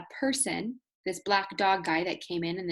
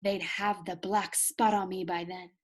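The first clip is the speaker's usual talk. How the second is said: fearful whisper. Acted. Captain fearful of pirates.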